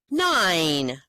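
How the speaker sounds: loud, pleased with himself; patient proudly gives the answer. Acted. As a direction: announce it like a prize answer. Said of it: "real proudly".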